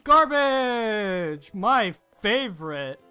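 gleeful monster. Acted. Monster gleefully eating trash.

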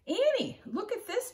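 put-on boy calling out to his sister. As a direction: call to your sister from a distance. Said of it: "Jack called".

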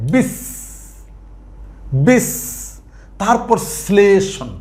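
বিস with a held hiss, pause, then শ্লেষণ; বিস and শ্লেষণ said apart to show the double sound; syllable-split demonstration. Shown as a demonstration. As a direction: sound the sibilant at the end of বিস and again starting শ্লেষণ. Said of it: "স এর উচ্চারণটা কয়বার হয়েছে?".

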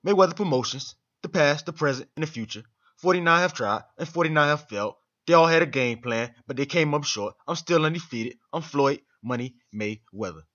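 lightly voiced boxer bragging, close to own voice; a hint of a cocky champ hyping himself; Floyd Mayweather impression. Vlogger mimicking a boxer's promo intro, mild bravado. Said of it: "my best Floyd Mayweather impression".

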